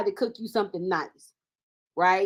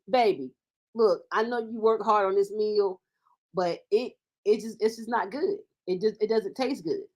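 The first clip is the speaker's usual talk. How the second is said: softer, careful and kind; gentle tactful letdown; 5 dB quieter than usual. Retold or imitated. Partner kindly admitting the cooked meal wasn't good, soft and tactful. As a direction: ease into it, sparing his feelings. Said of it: "you're being thoughtful of my feelings".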